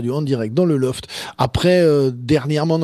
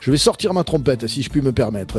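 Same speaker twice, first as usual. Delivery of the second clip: upbeat radio host voice, easing down at the end; radio host announcement. Acted. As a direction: announce the break to listeners. Annonce radio avant la pause. (annonce d'animateur radio)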